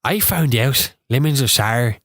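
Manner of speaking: slow, drawn-out attempt at Irish; clumsy Irish accent, stretched out; bad Irish accent. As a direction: do a poor Irish imitation. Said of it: "That was really bad".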